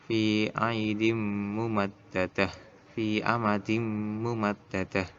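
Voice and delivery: "mumaddadah" ending in h; slow recitation, stopping on "mumaddadah" without tin; measured chant-like reading, "mumaddadah" closed on h; wakof stop. Shown as a demonstration. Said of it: "kalau diwakofkan".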